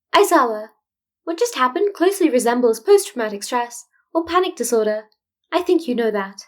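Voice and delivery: a careful, tactful principal; diplomatic Nezu. Acted. Nezu's voice held by narrator.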